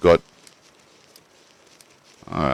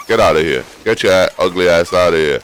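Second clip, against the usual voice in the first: loud, angry chase-off yell; real shout at a wolf; 5 dB louder than usual. Real, not acted. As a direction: drive the wolf away with a shout. Yelling at the wolf.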